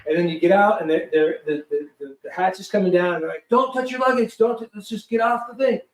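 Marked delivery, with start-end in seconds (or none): 3.5-5.8 mild mock yell, pitched up; imitated crew urgency without full volume; retold yelling. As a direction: hurry them off, higher. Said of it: "Why are they yelling?".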